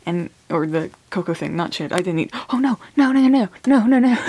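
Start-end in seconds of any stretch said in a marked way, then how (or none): 2.5-4.2 high, loud string of no; loud high panicked no no no. Real, not acted. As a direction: yelp no no no in alarm. Panic over something.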